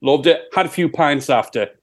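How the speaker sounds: put-on Sheffield accent; imitating a singer. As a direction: answer as a broad Sheffield rock singer. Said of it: "it's my Sheffield accent".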